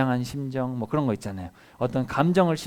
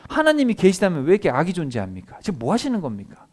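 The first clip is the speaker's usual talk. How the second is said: protesting; 4 semitones higher, 4 dB louder than usual. Retold or imitated. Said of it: "막 따졌단 말이에요".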